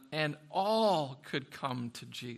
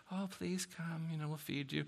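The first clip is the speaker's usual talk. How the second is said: mock pleading; 8 dB quieter than usual. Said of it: "he's not like".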